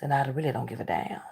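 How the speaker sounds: whispered under the breath. Real, not acted. Telling viewers about her family, whispered. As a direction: hush it as a private aside. Repeats the line twice.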